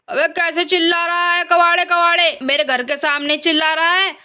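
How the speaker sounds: mildly hammed-up scolding; angry grandfather. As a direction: tell off a noisy hawker with acted annoyance. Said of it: "दादाजी गुस्से में बाहर निकल के आते हैं". (गुस्से में डाँटते दादाजी)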